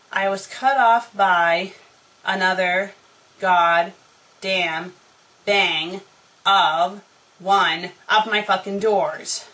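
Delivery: each word punched separately, with pauses; fed up, word by deliberate word; halting exasperation. A narrator's reading. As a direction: break it up for emphasis. Exasperated at yet another slammed door.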